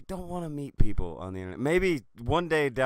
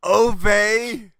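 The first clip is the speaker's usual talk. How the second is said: mock Jewish accent; 8 semitones higher, 9 dB louder than usual. Echoing the mock exclamation.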